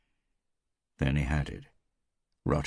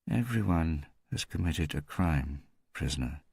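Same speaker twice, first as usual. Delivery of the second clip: bored. Acted. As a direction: say it like it's tiresome routine. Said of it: "The voice sounded bored".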